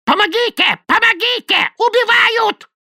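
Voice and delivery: very high, piercing screams for help; a bird shrieking like a murder victim; parrot's terrified cries. A narrator's reading. Parrot mimicking a victim's screams, piercing shriek. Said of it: "страшный, задыхающийся голос".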